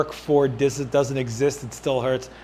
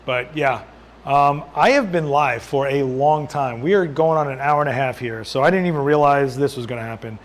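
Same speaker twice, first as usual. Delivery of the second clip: losing his voice, hoarse and tired; hoarse, worn-out voice after a long stream; 2 semitones lower than usual. Real, not acted. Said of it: "I am losing my voice".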